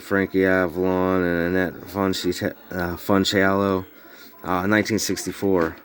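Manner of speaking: talking around snuff in mouth; words thick from snuff in mouth; mouth full. Real, not acted. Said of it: "sorry, I got snuff in my mouth".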